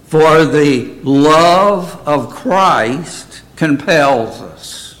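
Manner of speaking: very slow, weighty Bible reading; scripture reading. Acted. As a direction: stretch out each key word of the verse. Reads scripture aloud.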